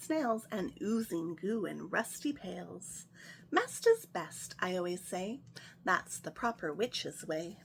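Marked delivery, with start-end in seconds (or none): 3.5-4.5 high, slow, sing-song witch. Acted. Witch Grimelda boasting her motto, high and drawn out. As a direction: stretch it out like a proud messy witch. Witch's catchphrase voiced in story.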